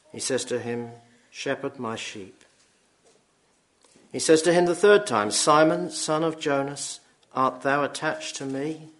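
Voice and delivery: measured, solemn Bible reading; scripture reading. Acted. Preacher reading Deuteronomy to the congregation, solemn reading. Reads John passage aloud.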